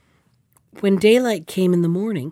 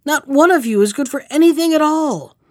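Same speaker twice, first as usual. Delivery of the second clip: higher, louder outburst at them; crying out; 6 semitones higher, 4 dB louder than usual. Acted. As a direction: cry out in frustration. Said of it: "cried the prince".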